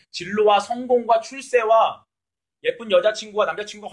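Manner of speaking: each worldly value slowly stressed; slow ironic emphasis. Real, not acted. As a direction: spell out their priorities with irony. Sarcastic listing of worldly values.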